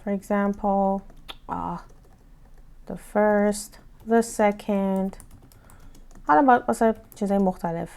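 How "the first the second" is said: "the" said as a short "thuh" before first and second. Shown as a demonstration. Teacher modelling the ordinary the, slow and clear. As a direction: say "the" with a short uh vowel. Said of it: "من همه رو the معمولی خوندم".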